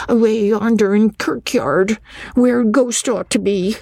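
high-pitched country lad, dialect; little boy Jacob. A narrator's reading. Schoolboy tells where he saw it, little village boy. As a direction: answer high, like a sure small boy. Child witness voiced in dialect.

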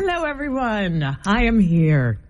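lightly put-on queen voice; a touch of regal greeting; queen in character. Host plays queen greeting her subjects, lightly in character. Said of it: "I just was in character there".

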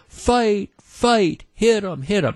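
high-pitched mock chant egging on a fight; mock screaming. Teens on chairs egging on a lunchroom fight, mock screaming. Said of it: "and they're screaming".

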